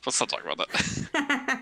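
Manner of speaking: hushed, breathy aside; whispering. Real, not acted. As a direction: drop to a secret whisper. Embarrassed, waving off the topic.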